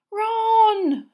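high, loud call after him; anguished cry. Acted. Hermione crying after Ron as he runs off. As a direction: cry out his name in alarm. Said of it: "Hermione moaned".

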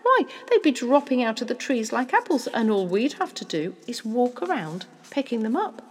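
animated father spinning a poaching plan; excited scheming father. Acted. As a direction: lay out the scheme with growing relish.

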